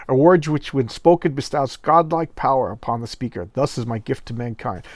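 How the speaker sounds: hammed-up, stately proclamation; grandiose cosmic specter. Specter bestows godlike power on cowering boy, mock-grand. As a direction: intone it like a cheesy comic-book wizard. Voices the conjured astrophysicist specter.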